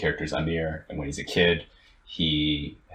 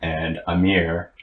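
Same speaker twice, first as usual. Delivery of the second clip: real emotion rising, pitched up; choking up; 2 semitones higher, 5 dB louder than usual. Real, not acted. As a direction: laugh it off while getting choked up. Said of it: "Yeah, I'm choking up".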